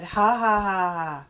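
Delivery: imitating her son's staged laugh; ha-ha laughed out loud; mock laugh. Mother imitating her son's laugh.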